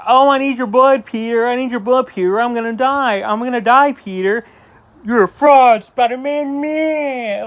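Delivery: high-pitched mock whining plea; whiny Harry. Reviewer mocking Harry begging Peter for blood, whiny. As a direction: whine it out like a needy crybaby. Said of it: "he's just such a whiner".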